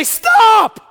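loud commanding call to stop; shout. Retold or imitated. God shouting to a wandering child, loud and commanding. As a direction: bellow it like a father calling a child back.

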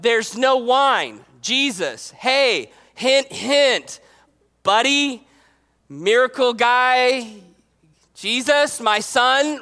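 lightly voiced hinting mother, short spaced-out nudges; pointed hinting. Mother nudging her miracle-working son at a wedding, pointed hinting. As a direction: drop hints to your son, word by word. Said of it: "kind of".

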